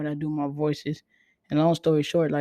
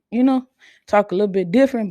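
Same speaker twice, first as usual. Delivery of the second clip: energetic; 4 semitones higher, 5 dB louder, faster than usual. Shown as a demonstration. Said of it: "I'm able to spice it up a little bit when I have some energy".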